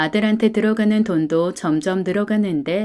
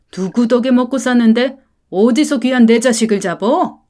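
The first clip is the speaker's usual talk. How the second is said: condescending tirade, voice raised; arrogant rich parent; 4 dB louder than usual. Acted. Rich parent scolding the poor father, arrogant and loud. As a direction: look down on him as you berate.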